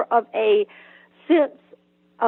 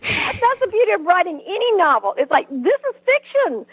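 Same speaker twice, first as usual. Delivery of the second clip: laughing; 8 semitones higher than usual. Real, not acted. Laughing while answering the host.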